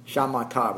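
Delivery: shamatha with the weight on the ma, sha-MA-tha; stress on ma. Shown as a demonstration. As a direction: lean on the ma syllable of Shamatha. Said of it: "with the emphasis on the ma".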